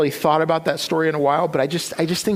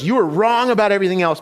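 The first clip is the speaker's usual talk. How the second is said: louder, higher, quick retold confrontation; emphatic retort; 4 semitones higher, 4 dB louder, faster than usual. Wife confronts her husband at his door, emphatic. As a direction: put it to him firmly, fast and high.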